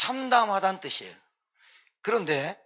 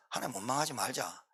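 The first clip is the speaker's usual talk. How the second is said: 엎드려 간청; 7 semitones lower, 13 dB quieter than usual. Acted. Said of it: "이렇게 했어요".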